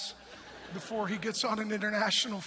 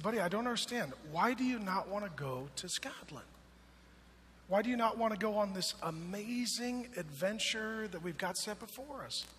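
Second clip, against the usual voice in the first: gentle dad; 4 dB quieter than usual. Retold or imitated. Dad kneels, talks gently.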